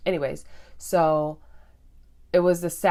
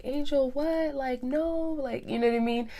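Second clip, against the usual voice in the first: high incredulous pitch on what and no; disbelieving friend; 9 semitones higher than usual. Retold or imitated. Friend in the Jeep reacting to her crying, high disbelief. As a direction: play the stunned friend, voice shooting up high.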